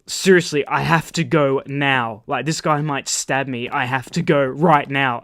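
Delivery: slow, firm retold plea; urgent insistence. Caller needing to hang up on his girlfriend, insistent. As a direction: lean on each word to get off the phone.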